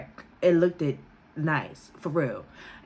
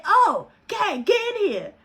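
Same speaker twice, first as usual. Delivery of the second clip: high, loud call to come in; loud mother; 12 semitones higher, slower than usual. Retold or imitated. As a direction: boom it out like a loud, friendly mom. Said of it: "she is so loud".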